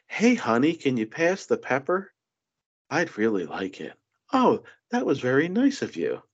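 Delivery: a mild mocking impression of a politician; patronising mock voice. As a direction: imitate her sugary tone. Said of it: "that's how she talks".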